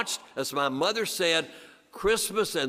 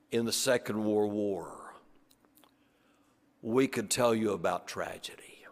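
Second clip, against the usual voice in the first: put-on hushed German-accented whisper, recalling war; 4 semitones lower, 3 dB quieter than usual. German factory owner tells schoolchildren of war, in a hushed whisper. Roman's solemn war memory.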